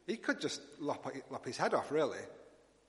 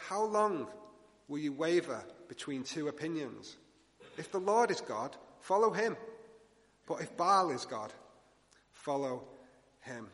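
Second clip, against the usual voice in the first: pleading. Retold or imitated. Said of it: "his tone changes to one of pleading almost".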